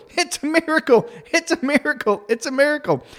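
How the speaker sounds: high-pitched mock cheer of tipsy moms; high, lilting chorus, acted; toasting moms. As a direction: imitate day-drinking moms raising a high-pitched toast. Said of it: "toasting their glasses going".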